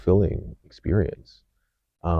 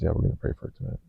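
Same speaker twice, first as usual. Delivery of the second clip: whispered quote; 4 dB quieter, faster than usual. Retold or imitated. Teacher quoted at the altar.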